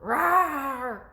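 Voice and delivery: loud playful monster roar; monster growl. Pretend. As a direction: growl like a stinky-breath monster for the kids. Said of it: "so she growls".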